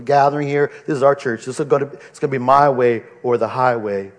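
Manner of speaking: a lightly put-on southern accent, an old church boss claiming ownership. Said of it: "I didn't mean to put that in a southern accent".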